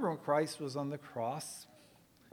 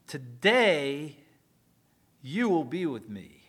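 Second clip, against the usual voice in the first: tender promise; 6 dB louder than usual. Acted. Quoting Jesus's promise on cross.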